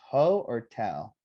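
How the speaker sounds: HO and TELL said apart, each slow and stressed; stress choice. Shown as a demonstration. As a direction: slowly offer HO, then TELL, as two options. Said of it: "where do we emphasize, uh, the stress".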